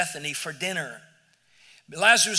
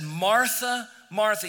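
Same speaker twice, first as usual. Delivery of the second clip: gentle, firm calling of her name; tender address to an upset Martha; loving but clear; 3 semitones higher, slower than usual. Acted. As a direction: call her back kindly but clearly. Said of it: "very lovingly but clearly said".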